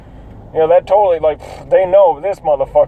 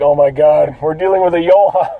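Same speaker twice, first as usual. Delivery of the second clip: holding back laughs. Retold or imitated. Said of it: "We had to hold back laughs".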